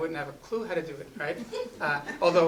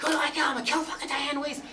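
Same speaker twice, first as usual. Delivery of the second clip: much higher, louder raging yell; furious yell; 11 semitones higher, 4 dB louder than usual. Retold or imitated. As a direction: scream it, ready to kill. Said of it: "it's getting really loud".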